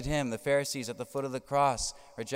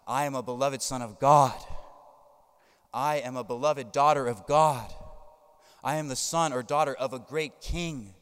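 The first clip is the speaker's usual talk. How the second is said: prayer; 4 dB louder than usual. Shown as a demonstration. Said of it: "These short little prayers".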